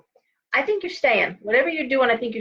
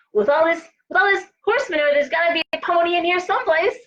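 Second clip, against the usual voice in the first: put-on high, quick, eager little boy voice; a hopeful kid sure there's a pony in the muck; hopeful child; 7 semitones higher, faster than usual. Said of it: "He's like".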